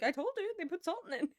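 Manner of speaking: loud, high-pitched I-told-you-so; triumphant retort. Retold or imitated. She retells winning the salt argument, loud triumph. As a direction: crow it out, vindicated.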